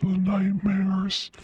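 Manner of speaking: mock spooky whisper. Streamer jokes about the nightmare voice to chat, hushed spooky whisper. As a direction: breathe it like a ghost story. Whispered joke on high setting.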